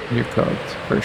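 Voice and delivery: unvoiced, soft repeat of You're cooked; whispered echo. Real, not acted. Echoing his verdict on the coworker in a whisper.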